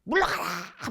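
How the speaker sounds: drawn-out, loud retold shout; imitating a pastor's shouted rebuke; shouted command. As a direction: shout to drive evil away, stretching the last vowel. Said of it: "소리 지른 거예요".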